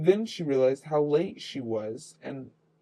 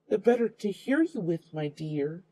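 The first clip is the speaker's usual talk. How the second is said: higher sly fake-granny voice; the wolf to the girl, sly and higher; 5 semitones higher than usual. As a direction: coo it slyly in a raised voice.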